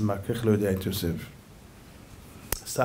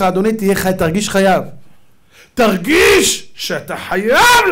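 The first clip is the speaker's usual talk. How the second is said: loud, insistent admonishing; fervent rabbi's exhortation; impassioned preaching; 8 semitones higher, 6 dB louder than usual. Real, not acted. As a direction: press the listeners hard with a raised voice. Preaches at the congregation.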